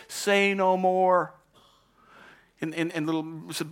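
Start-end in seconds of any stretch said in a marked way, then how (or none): 0.1-1.4 high, loud, slow proclamation; stretched-out, magnanimous "say no more"; commanding interruption. Acted. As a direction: halt the complaint grandly. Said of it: "Peter interrupts the little spokes mouse".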